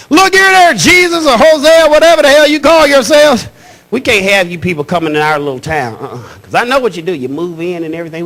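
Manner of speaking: a small-town cop laying down the law, lightly voiced; good old boy cop. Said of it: "speaking some good old boy Spanish".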